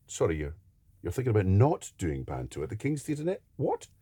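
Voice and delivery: mock incredulity, leaping up to a squeaked "what"; imitating a dad's disbelief. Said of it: "saw my dad's face going".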